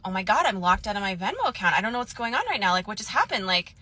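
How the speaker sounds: retold mock panic, pitch lifting in places; put-on "oh my God" alarm, lightly done; feigned freak-out. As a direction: act mildly flustered, faking a panic. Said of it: "I start kind of freaking out".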